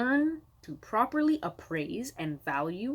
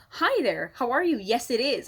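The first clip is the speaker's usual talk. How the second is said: chirpy seller greeting; 4 semitones higher, 4 dB louder than usual. Retold or imitated. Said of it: "I go".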